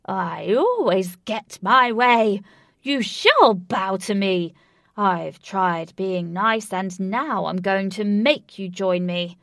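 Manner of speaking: slow, loud, strangled and strained. Acted. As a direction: force it out through a tight throat. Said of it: "Through a strangled voice he said".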